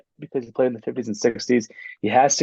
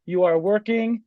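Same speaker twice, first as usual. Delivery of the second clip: lightly mimicked Long Island dad, pitched up; Long Island accent; 4 semitones higher than usual. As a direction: imitate dad's radio rant in a Long Island accent. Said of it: "nice Long Island accent".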